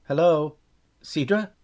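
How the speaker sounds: calling out loudly, high; shouting. A narrator's reading. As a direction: shout the names into the echo. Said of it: "His shouts echoed back at him".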